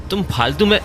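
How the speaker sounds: scolding cut short by a sudden halt; breaking off mid-sentence. Acted. Father reassuring mother sees someone behind the curtain, breaking off. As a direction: stop dead halfway through the sentence. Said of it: "बोलते बोलते एकदम से रुक गए".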